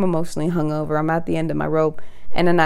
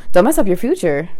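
exasperated echo with swooping pitch; indignant mocking retort; 3 semitones higher, 4 dB louder than usual. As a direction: throw their plea back, punched. Throws their plea back at them.

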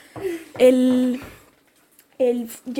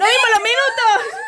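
laughing; 10 semitones higher, 4 dB louder than usual. Real, not acted. Laughing realization, high.

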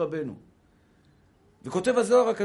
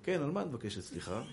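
laughing; 5 semitones lower, 10 dB quieter than usual. Retold or imitated. Husband mock-heroic to wife.

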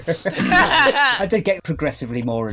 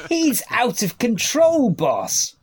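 much higher and louder, slow alarm; 12 semitones higher, 7 dB louder, much slower than usual. Acted. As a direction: shout it in alarm to the boss. Henchman complains to boss.

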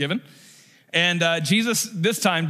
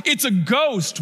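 higher-pitched mock cry of alarm; mild frightened cry; 5 semitones higher, slower than usual. Preacher retelling the terrified disciples' cry, mildly acted alarm. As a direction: lightly act out the disciples' fright. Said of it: "They, they cry out".

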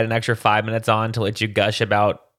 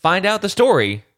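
news anchor voice; 3 dB louder than usual. Retold or imitated. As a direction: tease the late news like an anchor. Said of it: "she's like".

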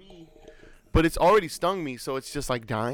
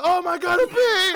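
high, louder panicked squeal; imitated freak-out; 6 dB louder than usual. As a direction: mimic a panicking cousin. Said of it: "she freaks out too".

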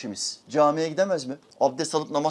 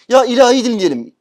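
mock whining request; 9 semitones higher, 12 dB louder than usual. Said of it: "Değiştirsene".

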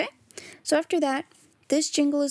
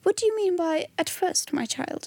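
higher, quick encouraging question; 7 semitones higher, faster than usual. A narrator's reading. Gentleman questioning the child, encouraging. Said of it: "encouraging voice".

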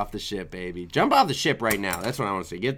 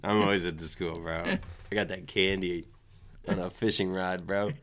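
summer school Marcus voice; 7 semitones lower, 7 dB quieter than usual. Acted. Playing summer school Marcus to close the video, low and dopey. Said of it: "what impersonation do you want me to send it off with".

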